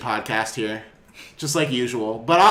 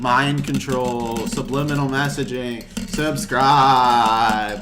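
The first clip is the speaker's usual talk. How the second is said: slow, droning hypnotist; drawn-out hypnotic chant; mock hypnotism; 3 semitones lower, much slower than usual. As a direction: stretch it out like subliminal mind control. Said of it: "word you're looking for is hypnotism".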